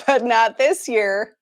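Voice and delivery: drawn out, breaking into laughter; laughing. Real, not acted. Host answering a fan's hope to meet, laughing. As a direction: say it slowly through a laugh. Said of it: "Sorry, I shouldn't laugh".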